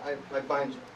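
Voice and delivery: quiet demo. Shown as a demonstration. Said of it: "now you say one more time".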